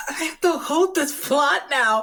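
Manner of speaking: high, loud laughing panic; panicked laughing shout. Real, not acted. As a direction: shriek it through laughter. Player panics out of character.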